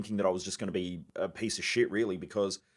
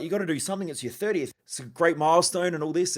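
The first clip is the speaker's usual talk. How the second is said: higher-pitched imitation of his pushy mum; urging mum; 7 semitones higher, 3 dB louder than usual. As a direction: mimic mum insisting he celebrate. Mum urging him to celebrate.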